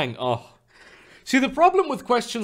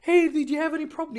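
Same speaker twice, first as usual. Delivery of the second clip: mock waiter; 12 semitones higher, faster than usual. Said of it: "What is that shit".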